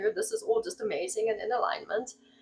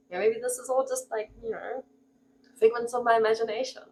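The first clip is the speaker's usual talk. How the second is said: 1 spiralling doubts; 2 semitones higher than usual. Retold or imitated. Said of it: "you then ask the questions".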